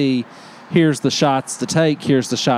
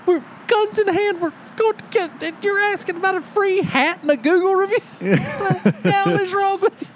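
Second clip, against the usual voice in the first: high-pitched mock tirade, cracking up; exasperated rant that breaks into laughter; retold yelling through laughter. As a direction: scold him in disbelief while laughing. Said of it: "The only time I had to yell at him".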